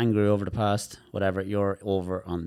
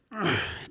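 braced sigh demo; 11 semitones higher than usual. Shown as a demonstration. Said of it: "they're like that".

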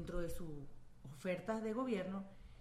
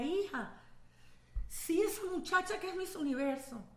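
quoting her mother; 4 semitones higher than usual. Retold or imitated. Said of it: "mi mamá me decía".

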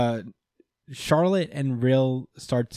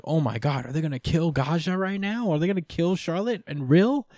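retold shock; 6 semitones higher than usual. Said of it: "And I'm like".

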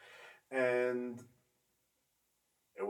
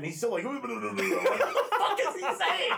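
exasperated rant; 8 semitones higher, 6 dB louder than usual. Retold or imitated. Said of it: "I'd be like".

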